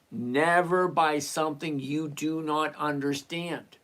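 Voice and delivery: slow, measured statement of a rule; unhurried, evenly spaced words; deliberately slow. Shown as a demonstration. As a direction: lay it out slowly so they understand. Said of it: "I'm gonna say it slow".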